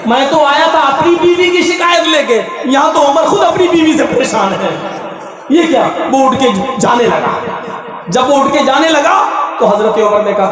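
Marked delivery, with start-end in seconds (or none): 0.1-5.8 amazed complainer. Retold or imitated. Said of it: "कहने लगा".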